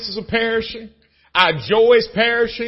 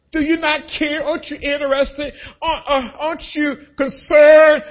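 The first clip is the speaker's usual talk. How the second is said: pleading disciples; 5 semitones higher, 3 dB louder than usual. Retold or imitated.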